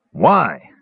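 short snarled question. Acted. Caramon demanding the kender's reason, snarled. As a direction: snap it out with a mild snarl. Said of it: "snarled Caramon".

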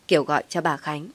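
plain reading voice

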